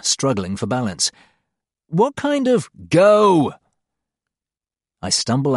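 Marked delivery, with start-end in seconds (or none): 1.9-3.5 high, loud cry to hurry; urgent shout. Acted. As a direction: yell it to hurry him. Cantor urges him to flee.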